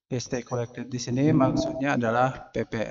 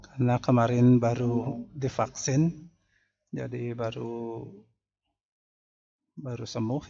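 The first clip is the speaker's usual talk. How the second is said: a little rough after the jab; hoarse voice. Real, not acted. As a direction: talk through a husky throat. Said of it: "suara Bapak agak serak".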